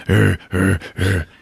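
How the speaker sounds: mock heavy panting in grunts; imitated Hulk panting. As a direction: grunt out each breath like a panting beast. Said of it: "and he's panting".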